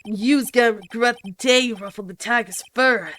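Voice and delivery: put-on Brooklyn accent. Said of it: "I can't do a Brooklyn accent".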